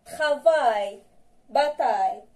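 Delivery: "Travail" and "Bataille" each end in the ay sound; model pronunciation. Shown as a demonstration. Teacher contrasts "Travail" and "Bataille" for pupils. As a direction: stress the ay ending of "Travail" and "Bataille".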